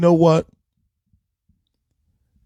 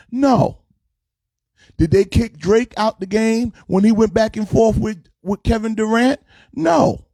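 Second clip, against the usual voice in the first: incredulous rhetorical build; 6 semitones higher than usual. Real, not acted. Rhetorical questions answered himself.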